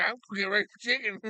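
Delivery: dog's thought. Retold or imitated. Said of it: "He's like".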